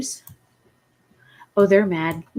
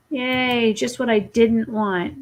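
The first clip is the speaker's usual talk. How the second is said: sarcastic; 2 semitones higher, slower than usual. Real, not acted. Sarcastic cheer at arriving bills.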